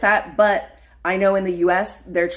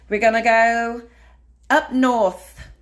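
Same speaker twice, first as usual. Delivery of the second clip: louder, higher put-on Canadian accent; hammed-up Canadian accent, raised and punched out; mock Canadian accent; 6 semitones higher, 6 dB louder, slower than usual. Telling viewers about the trip up north, mock Canadian accent. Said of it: "I did that accent".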